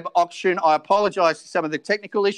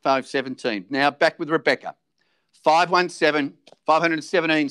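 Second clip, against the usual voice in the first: auctioneer calling. Acted.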